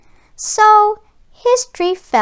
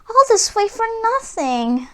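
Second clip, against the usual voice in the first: sadly; 8 semitones higher than usual. A narrator's reading. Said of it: "he said sadly".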